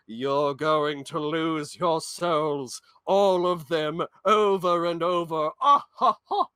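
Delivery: slow, creepy crone voice with a cackle; hammed-up witch taunting; mocking old witches. Firekeeper witches taunting the player, creepy slow cackle. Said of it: "and they go".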